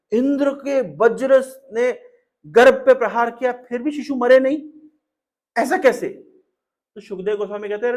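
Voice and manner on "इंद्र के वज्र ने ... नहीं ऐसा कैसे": astonished. Acted. Parikshit asks the sage in astonished disbelief. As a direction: sound stunned as you ask. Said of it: "Parikshit बड़े आश्चर्यचकित हुए".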